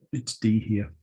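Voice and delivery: talking through hiccups; interrupted by hiccups; hiccuping. Real, not acted. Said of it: "my hiccups have come back with a vengeance".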